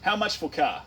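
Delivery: mock shouting customer; blunt customer shout. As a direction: call it out bluntly to a salesman. Acts out a blunt car buyer.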